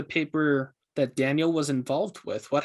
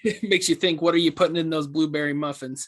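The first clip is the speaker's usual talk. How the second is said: laughing into a teasing question, a bit quick. Acted. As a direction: poke fun through a chuckle. Teasing about the muffins.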